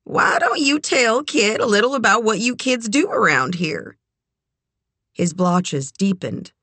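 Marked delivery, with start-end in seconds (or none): 0.0-4.0 high, smiling encouragement; keen matchmaker's nudge; eager. A narrator's reading. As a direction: coax with an eager lift in pitch. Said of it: "smiling eagerly".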